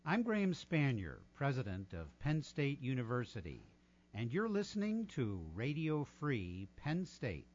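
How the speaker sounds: smooth station ID read; old radio voice. Shown as a demonstration. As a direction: announce it like a veteran DJ. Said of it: "In my old radio voice".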